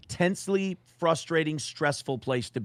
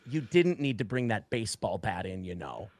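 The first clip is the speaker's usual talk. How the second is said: softer, dry mock reproach; dryly scold, fading out; mild reproach; 5 semitones lower, 6 dB quieter than usual. April scolding him about the bat, soft and dry. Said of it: "she goes".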